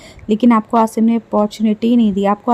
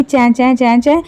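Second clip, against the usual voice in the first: mock screech. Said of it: "खुद चिल्लाएगी".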